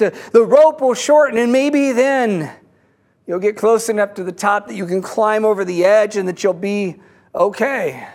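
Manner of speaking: lightly acted man calling out his plan. Man on the bridge explains his plan to the one below, calling down.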